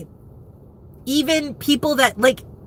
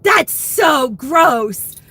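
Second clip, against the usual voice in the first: slow, drawn-out disgust; exaggerated slow grossed-out reaction; 3 semitones higher, much slower than usual. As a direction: drag it out like something smells. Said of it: "And I was like".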